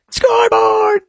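drawn-out, very high victory crow; mock gloating scoreboard. Gloating host crowing over the Canadians. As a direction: crow it slow and high like a sports fan. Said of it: "sarcastic chant".

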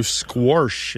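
"squash" said as squarsh; intrusive R. Shown as a demonstration. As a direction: add an R before the sh in "squash". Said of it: "sometimes you'll hear".

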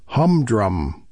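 "humdrum" said slowly, each syllable stretched; drawn-out humdrum. Shown as a demonstration. Radio host quoting a New York reviewer's verdict, drawn-out "humdrum". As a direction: draw out "humdrum", leaning on "drum". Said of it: "with emphasis on the last syllable".

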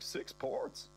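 high incredulous squeak; shocked. Acted. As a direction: pitch shoots up in disbelief. Shocked reaction to podcast.

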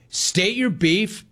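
slow, high, drawn-out command. Shown as a demonstration. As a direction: spell the demand out slowly. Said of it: "host demonstrates the format".

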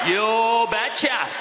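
put-on slow, drawn-out Norwegian accent; imitated Norwegian father's accent; thick Norwegian accent. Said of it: "responded in his thick Norwegian accent".

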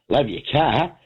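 laughing through the words. Retold or imitated. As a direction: say it while chuckling. Retold compliment to cop, laughing.

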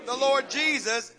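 "Lord" slow and weighty, pressed hard; stress on Lord. Shown as a demonstration. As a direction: lean on the word "Lord", drawn out. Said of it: "not Jesus".

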